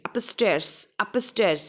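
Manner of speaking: upstairs with weight on both UP and STAIRS; stress on both syllables. Shown as a demonstration. Teacher showing double stress, both parts stressed. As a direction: hit up, then stairs, each firmly. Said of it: "अप के ऊपर भी मैंने जोर डाला".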